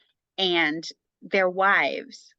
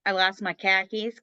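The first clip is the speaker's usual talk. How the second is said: Boston accent. Shown as a demonstration. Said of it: "I can say".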